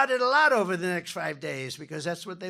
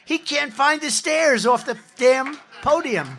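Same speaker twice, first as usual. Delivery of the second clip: scornful jab; 8 semitones higher, 11 dB louder, slower than usual. Real, not acted. Mocking his opponent's frailty.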